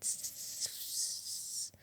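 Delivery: long, soft hissing sizzle; sizzling sound. Retold or imitated. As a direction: imitate meat searing with a hiss. Imitating meat searing on the fire.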